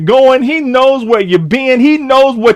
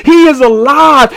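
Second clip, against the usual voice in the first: proclaiming; 4 semitones higher, 4 dB louder than usual. Real, not acted. Preacher proclaiming resurrection.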